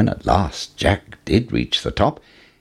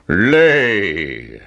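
giant's shout; 3 dB louder than usual. Acted. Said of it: "shouted the giant".

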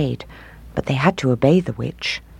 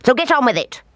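sharp, high snapped order; snapping; 10 semitones higher, faster than usual. Acted. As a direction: bite the words off. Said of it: "she snapped at Gretel".

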